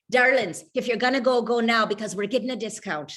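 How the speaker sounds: a light Irish lilt on the family calls; lightly put-on Irish accent, cheerful. Calling family about the funeral discount, in a light Irish accent. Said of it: "in my best Irish accent".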